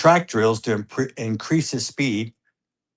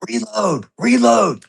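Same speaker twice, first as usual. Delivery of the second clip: louder and much higher, urgent; retold yell; 12 semitones higher, 5 dB louder, slower than usual. Dad and brother yelling at the shooter, urgent higher shouts. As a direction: shout it at him so he moves fast. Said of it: "Me and Hunter are yelling at him".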